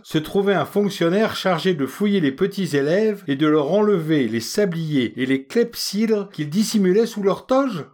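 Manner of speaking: leçon indignée et pompeuse, plus aiguë; oncle sermonneur. Acted. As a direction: fais la morale avec un faux savoir ronflant. Sapec sermonne le potache. (oncle pédant qui gronde, voix plus haute)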